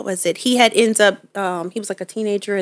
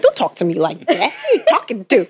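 mock scolding. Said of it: "with his deep voice, I'm like".

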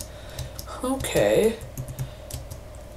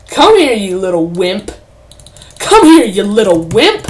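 taunting call; 7 dB louder than usual. Real, not acted. Taunting an enemy player in-game.

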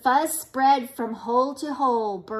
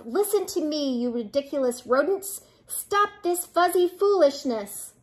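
mild scolding, building higher at the end; exasperated outburst; 3 semitones higher than usual. Acted. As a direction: lose patience with a silly crowd. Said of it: "was beside himself".

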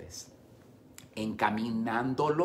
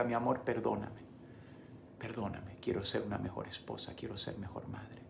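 much softer and lower, near a whisper; hushed intimate preaching; 4 semitones lower, 6 dB quieter than usual. Acted. Pastor modelling apology and prayer, hushed and low. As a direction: speak like a quiet confession.

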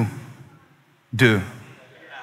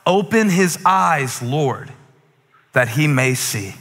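slow prayer; slower than usual. Acted. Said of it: "This is the prayer that I want us to pray".

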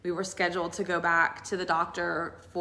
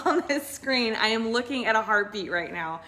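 excited yell; 3 semitones higher, 3 dB louder than usual. Retold or imitated. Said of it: "she yells out".

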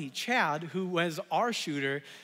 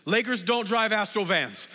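Shaq line. Retold or imitated. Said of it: "he says".

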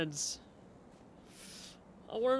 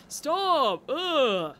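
annoyed; 3 semitones higher, 5 dB louder, much slower than usual. Real, not acted. Buzzing bees annoy the player.

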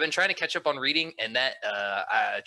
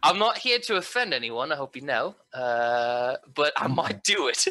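practice British accent. Shown as a demonstration. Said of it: "gotta do a British accent first".

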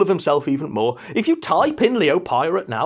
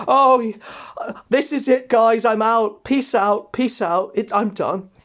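dramatic Leo impression; 4 semitones higher than usual. Leo quitting dramatically, voiced.

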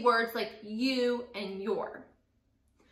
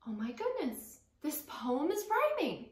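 mock surprise; 5 semitones higher, 4 dB quieter than usual. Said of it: "you'll think in your head and you go".

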